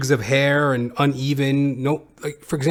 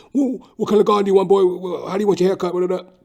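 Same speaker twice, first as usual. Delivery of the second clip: fast, higher mocking parrot of the barber; mocking impression; 6 semitones higher, 4 dB louder, much faster than usual. Mocking the pushy barber's questions back at him, fast and high. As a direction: rattle it off like you're mocking him. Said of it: "Fucking talk to me about what".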